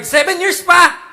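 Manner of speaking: booming high mock divine reply; playful voice of God. Preacher voicing God telling a teen to wait. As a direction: answer like God teasing a kid.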